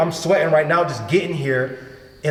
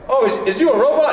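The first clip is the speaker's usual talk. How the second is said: mocking question; 9 semitones higher, 4 dB louder than usual. Casting panel mocks his audition.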